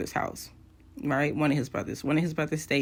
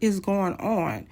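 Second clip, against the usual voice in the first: baffled inner voice; 3 semitones higher, slower than usual. Retold or imitated. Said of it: "in my mind, I'm like".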